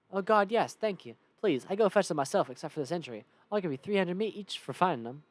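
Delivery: eager Western merchant; relieved horse seller. Acted. Horse seller begs the player's help, eager Western voice. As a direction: accept help gratefully in character.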